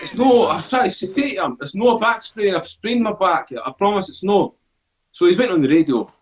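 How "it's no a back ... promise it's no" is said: higher-pitched retold objection; insistent protest. Injured soldier correcting the paramedic, insistent retold protest. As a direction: plead your case, pitched up.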